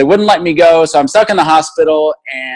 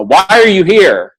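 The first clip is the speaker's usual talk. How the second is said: raised, slow demanding question; imitating a nurse scolding him; mock nurse yell; 7 semitones higher, 3 dB louder, slower than usual. Nurse demanding why the patient is there, mock yell. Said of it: "she just started yelling at me".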